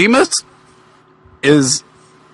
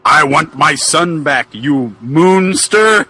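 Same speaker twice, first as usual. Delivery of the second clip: angry yell; slower than usual. Acted. Drew yells at Boogeyman.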